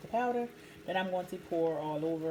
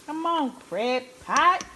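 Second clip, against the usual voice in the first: higher, louder, slow plea to the pot; eager urging; 6 semitones higher, 5 dB louder, slower than usual. Real, not acted. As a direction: beg the crab pot to hurry up. Urging the crab pot on again.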